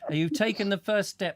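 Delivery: loud, high, eager encouragement; excited insisting. Real, not acted. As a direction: cheer her on, pushing.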